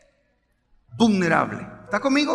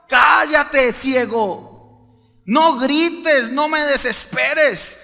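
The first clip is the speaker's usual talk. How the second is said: scolding the blind man, louder; mocking crowd; 3 dB louder than usual. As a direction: bark it at him like a hostile crowd. Stimme der Gegner gespielt.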